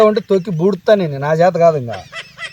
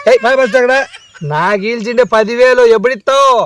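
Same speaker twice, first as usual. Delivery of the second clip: demanding shout; 5 semitones higher, 4 dB louder than usual. Acted. Nephew demanding his loan back.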